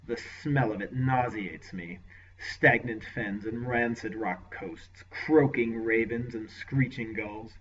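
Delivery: slow, contemptuous lord voice; disgusted lord. Acted. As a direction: sneer at the land, unhurried. Lord sneers at his lands.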